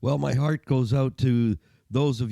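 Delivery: gargly cold voice, like in a tunnel. Real, not acted. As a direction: talk through a winter cold, gargly. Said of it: "if I sound a little gargly".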